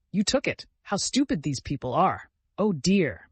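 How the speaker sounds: high indignant cry. Acted. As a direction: scoff at them. Indignant mocking outcry.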